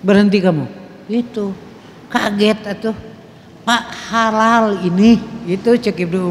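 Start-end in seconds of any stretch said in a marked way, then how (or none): 0.1-0.6 raised, louder stern command; Umar's stern order. Retold or imitated. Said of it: "Lain didorong, dititah". 3.7-5.2 protesting son. Retold or imitated.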